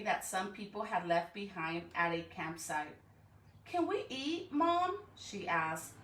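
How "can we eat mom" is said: put-on high, eager kid asking; childlike plea. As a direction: beg sweetly like a little girl. Child begging mother for candy.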